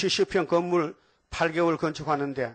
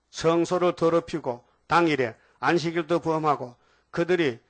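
scripture reading; 3 dB louder than usual. Acted. Preacher reads scripture aloud.

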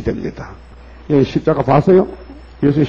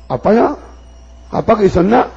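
higher-voiced son amazed at his father; son's tearful disbelief; 7 semitones higher than usual. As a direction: voice the son's wonder, pitched up. Son meeting lost father. (높은 목소리로 놀란 아들 흉내)

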